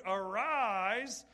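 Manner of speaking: loud commanding arise; loud command to a dead man. Acted. Voicing Jesus raising the dead.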